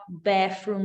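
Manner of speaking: "bathroom" said as "béfrum"; wrong th as f. Shown as a demonstration. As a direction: swap the th for f in "bathroom". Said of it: "não é, ó". ("bathroom" com som de f)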